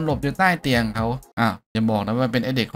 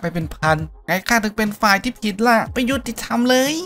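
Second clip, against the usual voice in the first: bitter protest; 10 semitones higher than usual. Acted. Fish seller protests to his old commander, indignant. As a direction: cry out at the injustice.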